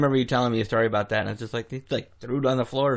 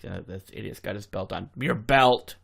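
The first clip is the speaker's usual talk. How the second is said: annoyed; 2 semitones lower than usual. Acted. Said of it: "he's probably just annoyed".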